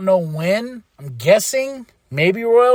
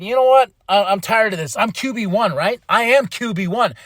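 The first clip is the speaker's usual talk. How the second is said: imitating Cody's rant. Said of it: "he's laying into Nick Aldis".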